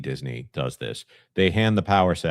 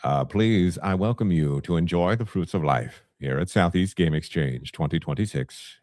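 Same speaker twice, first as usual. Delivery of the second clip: Morgan Freeman. Acted. Host inviting people to the convention, Morgan Freeman impression. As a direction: welcome them like a stately film narrator. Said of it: "I'm gonna switch to Morgan Freeman".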